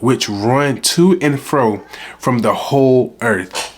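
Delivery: slow, solemn Bible reading; scripture reading. Acted. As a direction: read the verse slowly and reverently. Reads a Bible verse aloud.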